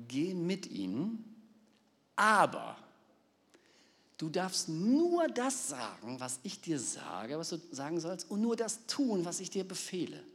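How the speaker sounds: slow, high, solemn divine voice; voice of God. Retold or imitated. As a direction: speak as God laying down the law. God speaks to Balaam.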